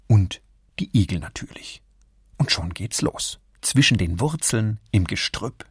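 ordinary delivery, nothing marked

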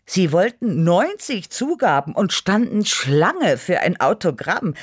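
high, loud gushing boast; self-praising. A narrator's reading. Cat drummer boasts of adoring fans, self-praising. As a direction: brag with rising excitement. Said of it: "lobte ich mich selbst".

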